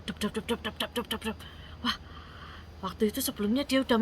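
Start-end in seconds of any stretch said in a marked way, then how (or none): 0.1-1.4 soft, rapid patter of footsteps; a light run of muted step noises; imitated crowd footsteps. A narrator's reading. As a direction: mimic many feet with quiet "dep dep" beats. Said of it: "dia dengar nih suara langkah orang banyak".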